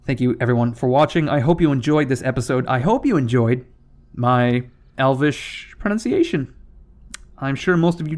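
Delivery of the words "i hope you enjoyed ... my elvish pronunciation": tripping over the words; stumbling, repeating the start of the phrase; stuttering. Real, not acted. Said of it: "Do you like these stutters?".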